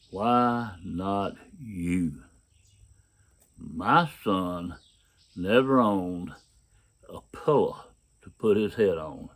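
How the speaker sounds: very slow, measured answer, long pauses between phrases; lightly voiced divine rebuke, each phrase left to land; grave, deliberate reply in the mind; God. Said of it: "this is what he told me".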